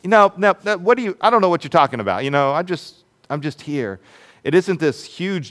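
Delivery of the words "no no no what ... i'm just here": quick, higher, dismissive no-no-no; brushing her off. Retold or imitated. Peter brushing off the servant girl, quick and dismissive. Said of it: "just sort of brushing her off".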